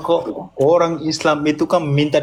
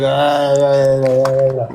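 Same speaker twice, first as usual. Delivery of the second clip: raised voice, imitating a shouter; imitated yelling; 5 dB louder than usual. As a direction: mimic someone yelling over and over. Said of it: "Tadi kan Zumanya teriak-teriak".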